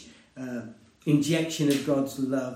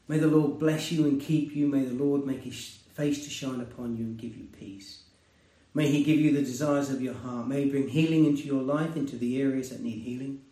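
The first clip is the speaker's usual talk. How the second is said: pastoral blessing. Acted. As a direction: pronounce a blessing over the listeners. Closing blessing over congregation.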